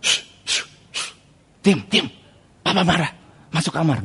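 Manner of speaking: hushed retold warning; mother hushing children. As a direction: imitate a mother shushing the kids. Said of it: "mama saya bilang".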